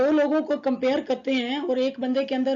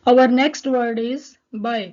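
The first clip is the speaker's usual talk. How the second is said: loud announcement; 6 dB louder, much slower than usual. Real, not acted. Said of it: "announces the next topic".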